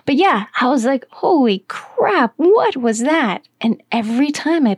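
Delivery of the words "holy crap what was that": higher and slow, reliving the shock; amazed, higher and drawn-out; stunned exclamation. Retold or imitated. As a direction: gasp it out, amazed all over again. Stunned reaction to the music.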